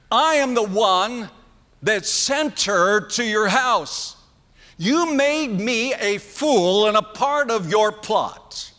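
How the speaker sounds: a preacher voicing a furious father, slowing at the end; hammed-up fatherly rebuke; angry father scolding. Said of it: "he's rehearsing words like".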